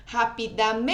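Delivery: "Rapidamente" with MEN held very long, as if calling it; calling out the word. Shown as a demonstration. Teacher calling the word to find its stress, long-held MEN in "Rapidamente". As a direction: call "Rapidamente", stretching out MEEEN. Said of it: "chamar pela palavrinha, né? Pela sílaba tônica".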